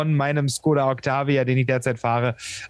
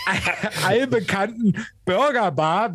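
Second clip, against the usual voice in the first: laughing; 4 semitones higher than usual. Real, not acted. Laughing through the words.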